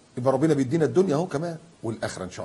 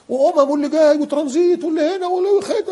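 1 excited shouting; 13 semitones higher, 4 dB louder than usual. Real, not acted. Excited airport listing.

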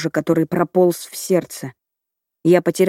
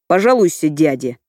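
low growl. A narrator's reading. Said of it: "глухо рычит".

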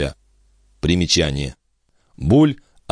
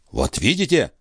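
higher, pointed "Вот видите?"; tossed-off retort; 6 semitones higher than usual. Acted. Филипп бросает Бальзамо короткий упрёк. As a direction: throw it back at him. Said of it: "бросил Филипп".

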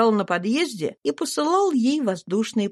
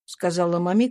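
usual speaking voice

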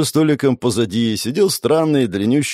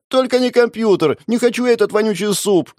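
put-on whiny child; 12 semitones higher than usual. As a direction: whine like a sulky schoolboy. Childish protest at mum. (писклявое детское нытьё)

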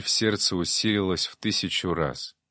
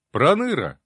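higher, louder glad call of a friend; delighted call; 7 semitones higher, 5 dB louder than usual. A narrator's reading. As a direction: call out with sudden joy. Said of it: "обрадовался я".

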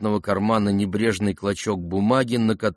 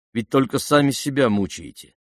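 ordinary delivery

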